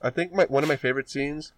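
talking while chewing croissant; mouth full. Real, not acted. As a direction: speak through a mouthful. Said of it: "Sorry, I'm eating mini croissants".

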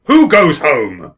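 long, loud drawn-out call; doormen's call. Acted. Doormen calling MPs at day's end, drawn-out shout. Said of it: "will say in unison".

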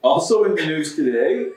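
voice cracking. Real, not acted. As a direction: voice cracks on "tariffs" with excitement. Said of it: "your voice just cracked when you said tariffs".

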